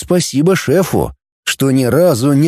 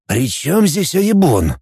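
surprised; 3 semitones higher, slower than usual. Acted. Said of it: "удивился шеф".

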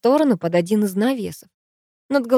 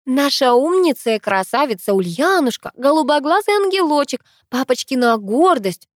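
high, loud sarcastic outburst; exploding; 7 semitones higher, 5 dB louder than usual. A narrator's reading. Narrator snaps at her golden-child sister, exploding. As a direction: heap on mocking praise angrily. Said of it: "взорвалась я".

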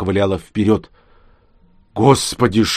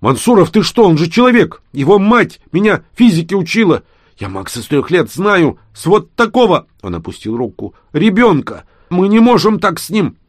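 much higher, loud desperate protest; outraged protest; 10 semitones higher, 6 dB louder than usual. Acted. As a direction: stop him from shooting the boy. Yakushev protests shooting Max. (возмущённый отчаянный протест)

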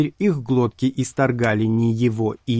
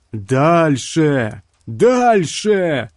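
loud yell rising higher; 4 semitones higher, 4 dB louder, much slower than usual. A narrator's reading. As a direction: yell at the worms to go on. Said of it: "завопил на червей Карстерс".

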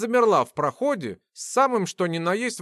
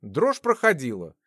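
usual speaking voice

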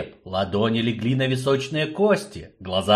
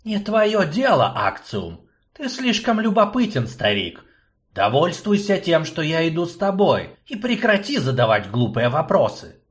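cold rebuke; 6 semitones higher than usual. Acted. Gorjelin rebukes old man.

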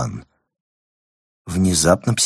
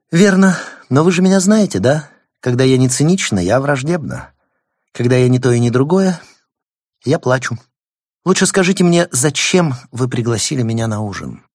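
imperious plummy grande dame; 5 semitones higher, 5 dB louder than usual. Acted. Gaëlle's voiced dialogue.

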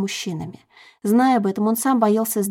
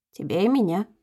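velvety voice. Acted. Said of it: "бархатным голосом ответил муж".

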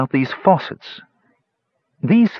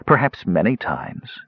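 purring. Acted. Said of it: "She purred".

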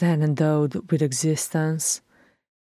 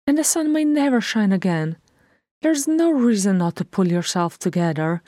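lively scolding; 4 semitones higher, 3 dB louder than usual. Acted. Bilbo scolding Thorin.

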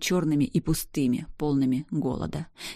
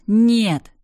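loud, high panicked scream; 6 semitones higher, 9 dB louder than usual. A narrator's reading. Woman running around screaming during the fight, panicked loud scream. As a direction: scream it with everything you have. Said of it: "бегала из стороны в сторону и орала".

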